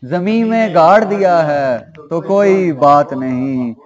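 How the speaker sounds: measured mushaira verse recital; ghazal recitation. Acted. Poet presenting couplets to a mushaira audience, measured recitation. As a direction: recite the couplet with drawn line-ends.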